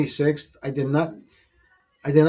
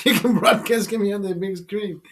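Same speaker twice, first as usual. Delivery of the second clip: higher, laughing repeat; 4 semitones higher than usual. Real, not acted. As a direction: say it through real laughter. Laughs while repeating the line.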